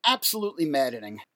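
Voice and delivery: ordinary talk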